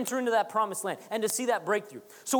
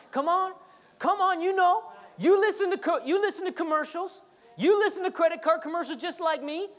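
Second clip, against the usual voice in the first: high, louder preaching push; rallying; 8 semitones higher, 3 dB louder than usual. Real, not acted. Preacher rallying the congregation, high and loud. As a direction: raise it up to rally the room. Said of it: "rallies the crowd".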